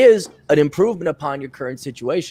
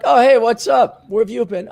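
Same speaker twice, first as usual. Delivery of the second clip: acted surprised greeting; 8 semitones higher, 3 dB louder than usual. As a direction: act caught off guard, pitched up. His startled reply to his ex.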